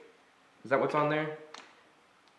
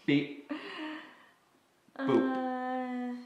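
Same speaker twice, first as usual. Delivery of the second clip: robot boop; 10 semitones higher, 5 dB quieter than usual. Pretend. Voicing the robot's sound.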